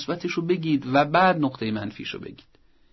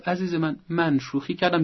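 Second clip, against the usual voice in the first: frank teacher; 4 semitones higher than usual. Shown as a demonstration. Teacher admitting his joke to the pupil, frank. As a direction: own the joke openly. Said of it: "معلم عزیز بگو".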